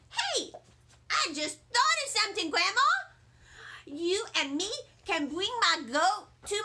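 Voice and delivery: put-on high, eager kid voice; a child selling her big idea; excited young girl planning a party; little girl voice. Junie pitches her party idea.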